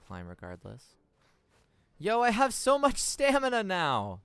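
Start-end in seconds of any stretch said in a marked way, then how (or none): 2.0-4.2 hyped. Real, not acted. Gamer hyped collecting stamina.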